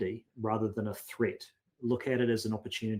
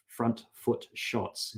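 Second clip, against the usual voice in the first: slow careful tongue twister; much slower than usual. Real, not acted. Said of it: "Say that three times fast".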